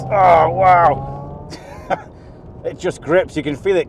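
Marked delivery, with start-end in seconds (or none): 0.0-1.5 excited wow. Real, not acted. Car grips hard.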